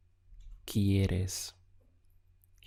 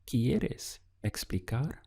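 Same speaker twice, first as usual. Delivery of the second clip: slow, with a rising question tune on ¿Quieres explicar?; question intonation; 3 semitones higher, slower than usual. Shown as a demonstration. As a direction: lift the end of ¿Quieres explicar? into a question, taken slowly. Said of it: "use the intonation of your voice to ask a question".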